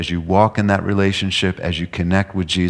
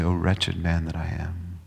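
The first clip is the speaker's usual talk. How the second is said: much softer, mournful confession; quiet lament; 7 dB quieter than usual. Acted. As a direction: say it softly as a confession. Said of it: "willing to say".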